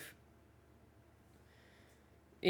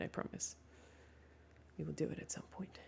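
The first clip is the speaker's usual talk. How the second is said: soft unvoiced whisper; 4 semitones lower, 17 dB quieter than usual. Real, not acted. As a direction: whisper the promise. Whispered aside.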